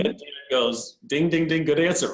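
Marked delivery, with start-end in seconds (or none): 1.1-2.1 mimicked winner's bell, punched out; quiz-show approval. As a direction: ring it out like a correct-answer buzzer. Pastor acted as quiz bell.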